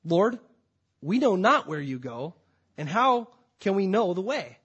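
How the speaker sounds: a loud, honest cry of confusion; Thomas's loud plea. Acted. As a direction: call it out loud, pleading with the Lord. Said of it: "Thomas says".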